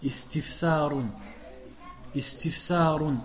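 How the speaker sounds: Istifsarun slow and syllable by syllable; slow model word. Shown as a demonstration. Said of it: "c'est quoi le masdar". (Istifsarun lent et détaillé)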